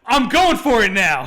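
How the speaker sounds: loud, high, over-the-top declaration; all-out actor impression. Host imitating the actor going all out in the ending fight, loudly. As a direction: go all out, shouting it. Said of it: "Rutger Hauer's like".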